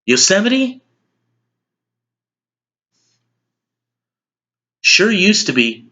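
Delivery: measured, wistful speech with long pauses; understated nostalgic monologue; Will McAvoy. Acted. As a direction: recall lost greatness, letting each phrase land. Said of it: "as news anchor Will McAvoy".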